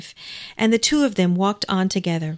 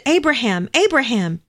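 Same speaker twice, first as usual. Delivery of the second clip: calling out; 4 semitones higher than usual. Acted. Angel calling from heaven.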